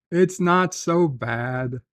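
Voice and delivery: stretched-out, slow reassurance; slow and drawn out; reassuring. Real, not acted. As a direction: reassure them, drawing out each word. Reassures chatter, then doubts it.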